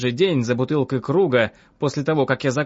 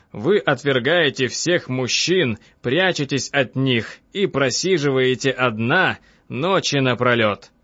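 slow, weighty analyst; drawn-out, deliberate doctor's voice; composed doctor Freud; slower than usual. Acted. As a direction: spell out the diagnosis slowly.

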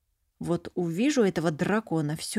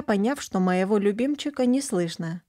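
usual speaking voice

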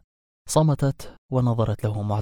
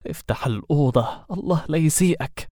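a touch of grudging anger; resentful; 4 semitones higher than usual. A narrator's reading. Werewolf bitterly telling the wizard to open the room. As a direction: grumble the order with spite. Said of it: "بغل".

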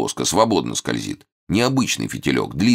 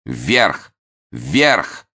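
loud booming cry from darkness; booming call; 2 semitones higher, 3 dB louder than usual. Acted. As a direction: boom it out. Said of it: "ухнул из темноты".

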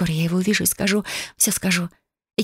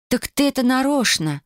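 gasping surprise; 7 semitones higher than usual. A narrator's reading. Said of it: "ахнула я".

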